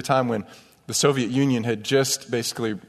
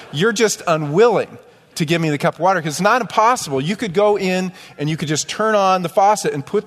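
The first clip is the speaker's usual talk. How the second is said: frustrated retort; 4 semitones higher than usual. Retold or imitated. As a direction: argue with the waiter, exasperated and pressing. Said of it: "I'm so frustrated".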